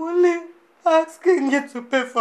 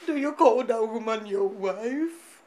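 a touch of tears in the voice; wounded woman asking through mild crying; tearful question; 4 dB quieter than usual. Acted. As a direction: ask it holding back tears. Hurt woman questions his marriage.

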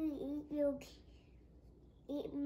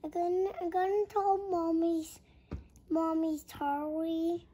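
loud tearful wail between sobs; crying loudly; 5 dB louder than usual. Real, not acted. A little girl tells Mommy she ate all her candy, crying loudly. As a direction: cry it out, hurt and angry. Child upset after candy is gone.

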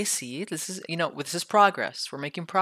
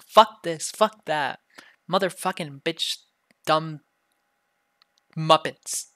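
punched, louder mock-angry cursing; sweary rant; 5 dB louder, slower than usual. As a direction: curse like a sailor, word by word. Demonstrates cursing like a sailor.

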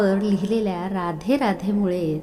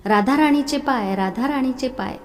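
higher and louder desperate call; 5 semitones higher, 5 dB louder than usual. A narrator's reading. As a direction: cry out for her across the temple. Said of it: "जोरजोरात हाक मारू लागला".

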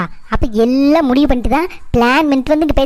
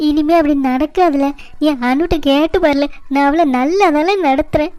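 fake crying. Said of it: "இவ்வளோ நேரம் அழுது நாடகம் ஆடின".

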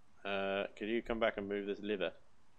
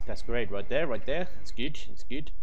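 much louder, eager encouragement; loud excited calling; 3 semitones higher, 16 dB louder than usual. Real, not acted. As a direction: call out to guide a partner. Directing partner during tricky jump.

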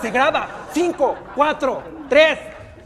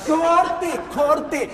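calling cut; 5 semitones higher than usual. Real, not acted. Director stops the take again.

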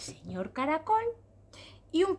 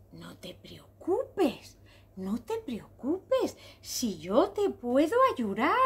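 very slow, lilting comfort, starting hushed; soothing reassurance; much slower than usual. Acted. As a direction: draw out each word to calm a crying little one. Spider comforts the crying zebra.

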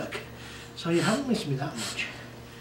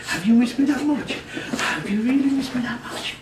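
high doggy coo; 5 semitones higher, 4 dB louder than usual. Real, not acted. Dad cooing at excited dog.

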